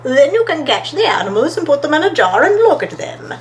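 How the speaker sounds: gently lilting story character explaining a plan; Stripe the helpful friend. Acted.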